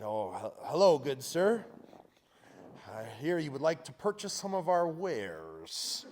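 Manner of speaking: slow, stiff, overly formal pitch; hammed-up old-fashioned shopkeeper; mock posh salesman. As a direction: play the nervous kid hamming up a fancy seller. Mock formal greeting to store buyer.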